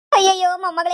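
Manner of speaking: loud distressed wail; alarmed outcry. Acted. Grandmother begs granddaughter not to die, loud wail. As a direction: cry out in alarm.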